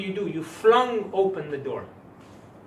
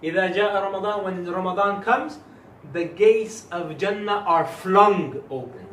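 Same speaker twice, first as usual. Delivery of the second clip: louder, stressing flung open; with emphasis; 2 semitones higher, 5 dB louder than usual. Shown as a demonstration. Teacher giving the emphasis to students, louder and punchy. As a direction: stress flung open like gates thrown wide. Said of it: "So I will give you the emphasis".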